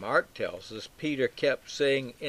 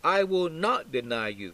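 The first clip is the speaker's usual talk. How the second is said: firm refusal at raised pitch; emphatically negative; 5 semitones higher than usual. Acted. Peter refusing to deny Jesus, emphatically negative. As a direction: lean hard on "not". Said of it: "Peter's emphatically negative".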